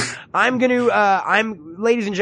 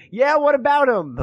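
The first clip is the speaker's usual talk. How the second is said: eager curiosity; 7 semitones higher than usual. Retold or imitated. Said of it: "that part of me that stopped and was like".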